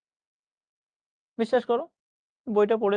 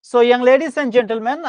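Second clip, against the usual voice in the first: playful address; 4 semitones higher, 5 dB louder, much slower than usual. Real, not acted. Teacher addressing class playfully.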